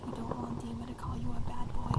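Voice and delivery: hushed playful scolding; whispering. Acted. Whispered teasing.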